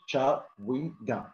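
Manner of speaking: "chewing gum" slowly, syllable by syllable; slow teaching model of "chewing gum" with a clear ch; normal pronunciation. Shown as a demonstration. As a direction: break "chewing gum" into cha-wing gum. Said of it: "normally it's not like that".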